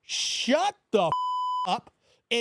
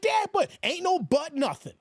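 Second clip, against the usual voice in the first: higher mock shout back at dad; young son protesting; 5 semitones higher than usual. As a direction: push back like a mouthy son. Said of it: "I was like".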